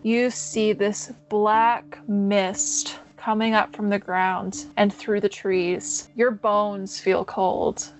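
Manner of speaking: unhurried spooky narration; game master narration. A narrator's reading. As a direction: draw the player into a creepy wood. GM sets a dark scene.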